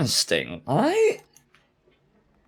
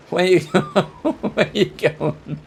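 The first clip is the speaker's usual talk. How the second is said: laughing through the words; cackling while asking; wild rambling cackles; slower than usual. Real, not acted. Laughing while chasing in game.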